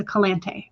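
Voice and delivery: "Calante" softly, as kuh-LAHN-tay; careful pronunciation. Shown as a demonstration. Host confirming a viewer's name, "Calante" softly said kuh-LAHN-tay. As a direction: softly stress the middle of "Calante", ending in "tay". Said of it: "telling me how to pronounce it".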